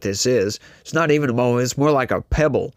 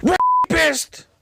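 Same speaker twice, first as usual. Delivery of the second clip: much higher, shrill shriek of one word; screamed accusation. Retold or imitated. Friendly hello answered with a hysterical shrieked accusation. Meme stranger screaming at greeter.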